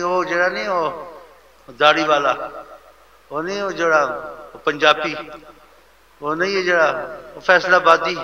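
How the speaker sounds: loud, scornful mimicry of fickle people; mocking loud put-down; dismissive gossip. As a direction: sneer at him like the crowd does once his money is gone. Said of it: "ایسے بولتے ہیں۔".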